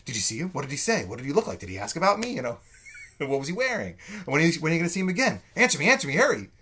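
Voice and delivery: a hammed-up modern Rosalind begging for news, high and loud; frantic. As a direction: fire off questions in a lovesick frenzy.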